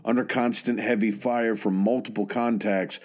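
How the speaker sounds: measured military history narration; scripted narration. Real, not acted. Narrator telling listeners of a soldier's service, measured scripted narration. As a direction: narrate in steady, deliberate phrases with set pauses.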